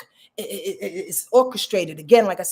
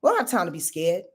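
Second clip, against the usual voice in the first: eclipse speaking; 6 semitones higher than usual. Acted. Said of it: "This eclipse is going".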